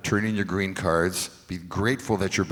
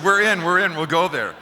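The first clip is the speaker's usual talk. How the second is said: high, loud, excited retold yes; acted-out eager outburst; eager acceptance; 9 semitones higher, 6 dB louder than usual. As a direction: jump at the offer, voice shooting up. Jumps at the gig offer.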